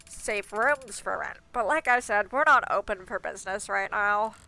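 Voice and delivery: nasal gatekeeper voice. Acted. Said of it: "plugging my nose when I do his voice".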